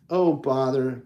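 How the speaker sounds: mild oh bother. Acted. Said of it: "Pooh cried".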